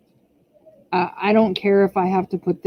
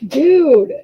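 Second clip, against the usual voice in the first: scolding; 6 semitones higher than usual. Real, not acted. Mom scolding toddler knocking everything off, sharp and higher. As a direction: snap at him to stop it.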